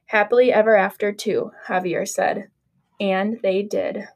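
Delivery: put-on lively read-aloud storytelling for children; story narration. A narrator's reading. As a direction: read it like a picture book to little kids. Teacher reads Cinderella story aloud.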